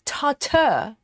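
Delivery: tartar with a weak 'ter' ending; American-style pronunciation. Retold or imitated. Host reading out a viewer's version of tartar, American-style pronunciation. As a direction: say tartar as TAR-ter. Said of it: "kind of say tartar funny".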